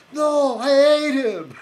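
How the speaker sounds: drawn-out, high Scottish shout; Willie. Retold or imitated. Groundskeeper correcting the boy, exaggerated Scottish yell. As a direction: bellow it slowly in hammed-up Scottish. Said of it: "like Willie on, uh, The Simpsons".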